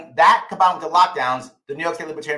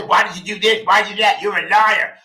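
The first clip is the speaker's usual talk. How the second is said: mock angry shouting; 4 semitones higher, 4 dB louder than usual. Imitating people scolding him.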